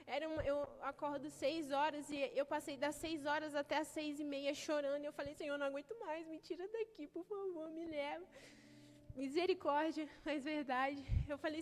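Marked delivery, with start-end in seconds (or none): 5.3-8.3 soft, broken plea to God; hushed tearful prayer; quiet pleading prayer. Retold or imitated. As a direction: whisper out a desperate prayer.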